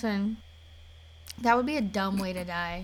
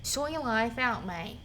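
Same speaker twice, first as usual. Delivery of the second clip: put-on Australian accent; 4 dB quieter than usual. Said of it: "Welcome to Australia".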